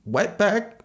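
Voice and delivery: very high crying scream; crying while hurling the slur. A narrator's reading. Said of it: "He was crying".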